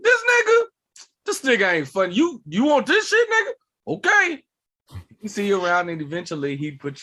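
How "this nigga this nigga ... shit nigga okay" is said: high-pitched mock disbelief; hammed-up incredulous questions, jumping high; abrasive drunk uncle. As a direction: challenge them like a scoffing drunk uncle. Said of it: "loud, abrasive, drunk uncle energy".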